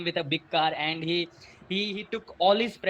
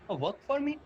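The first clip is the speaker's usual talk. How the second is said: questioning disbelief; 2 semitones higher, much faster than usual. Acted. Boy to Mike's dad on hearing the condition, questioning. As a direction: ask it back, taken aback.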